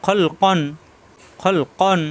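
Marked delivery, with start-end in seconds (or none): 1.4-2.0 "খল কন" made at the root of the tongue. Shown as a demonstration. Teacher models the word, "খল কন" from the tongue root. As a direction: sound "খল কন" far back with rounded vowels. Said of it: "জিব্বার গোড়া থেকে".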